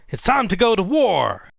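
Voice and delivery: loud, high battle-cry yell; shouted war cry. Retold or imitated. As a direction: shout it out like a wrestler charging in. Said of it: "Vader shouts out".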